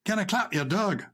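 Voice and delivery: trying out a Scottish accent; attempted Scottish accent. Shown as a demonstration. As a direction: have another go at the Scottish accent. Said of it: "I'm getting the accent right".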